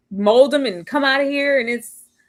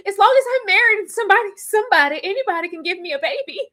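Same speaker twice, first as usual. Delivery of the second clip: fast, slightly higher mocking voice; fast mock of Michelle; 7 semitones higher, faster than usual. Host mocking Michelle's wish for a baby, fast. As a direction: rattle it off like her.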